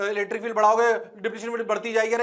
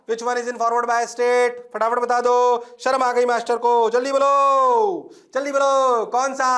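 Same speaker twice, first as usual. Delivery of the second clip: high, loud teacher calling for answers; loud urging; 5 semitones higher, 6 dB louder than usual. Real, not acted. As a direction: press the class, stretching the calls. Pressing class to answer quickly. (ऊँची आवाज़ में जवाब माँगते हुए)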